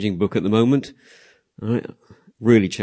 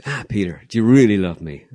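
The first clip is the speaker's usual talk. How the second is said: Jesus pressing harder; 5 dB louder than usual. Retold or imitated. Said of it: "And he goes".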